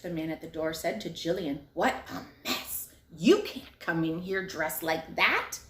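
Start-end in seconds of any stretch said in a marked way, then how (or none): 1.7-5.6 slow, sniffy refusal; disapproving doorman. Acted. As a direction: look down on her dress, slowly. Doorman refuses messy girl.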